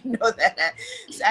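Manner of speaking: laughing. Real, not acted. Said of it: "Once I get animated".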